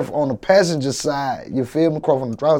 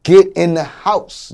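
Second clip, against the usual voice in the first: raised, drawn-out urgent order; retold scream; 5 semitones higher, 8 dB louder, slower than usual. Shooting victim retelling how he screamed at his mom, raised voice. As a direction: call it out loudly, stretching the words. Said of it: "I'm screaming at my mom".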